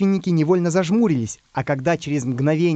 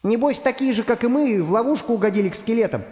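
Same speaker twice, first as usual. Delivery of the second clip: high-pitched storybook character voice; high voice, wondering aloud; doubting Pencil; 7 semitones higher than usual. Acted. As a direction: speculate in a high little voice.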